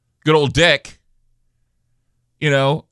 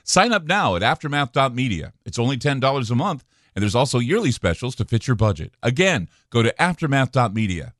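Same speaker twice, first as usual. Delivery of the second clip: ad read; 2 semitones lower, 3 dB quieter than usual. Acted. Recorded outro ad read.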